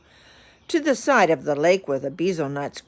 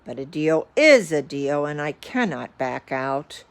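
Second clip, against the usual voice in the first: sighing. Acted. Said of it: "sighed poor Horton".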